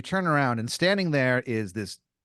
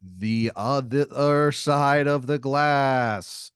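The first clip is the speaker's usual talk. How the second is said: grand fighter; 3 semitones higher, 3 dB louder than usual. Acted. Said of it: "He's like".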